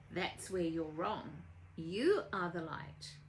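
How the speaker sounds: slow, measured assurance; gentle correction. Acted. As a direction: tell them slowly, as settled truth. Woman corrects Phyllis, story.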